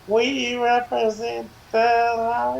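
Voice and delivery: slow, sing-song Munchkin line; Munchkin impression. Teasing his cohost with a slow Munchkin line. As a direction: chant it slowly like a Munchkin. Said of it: "That's the best you got, the Munchkins".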